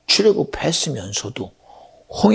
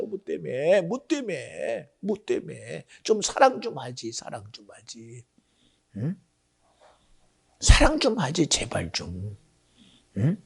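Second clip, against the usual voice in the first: soft plea; 8 dB quieter than usual. Real, not acted. Soft pleading after climax.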